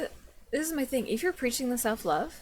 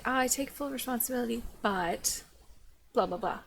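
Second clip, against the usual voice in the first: quick mock apology trailing into dismissive filler; insincere apology example. Shown as a demonstration. Critic showing how not to apologize, dismissive mimicry. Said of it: "You can't apologize and say".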